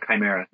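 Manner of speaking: Chimera with a long "eye" vowel; hard I pronunciation. Shown as a demonstration. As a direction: say Chimera as "ky-MEH-ruh", softly. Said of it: "I've always dealt with the high, hard I".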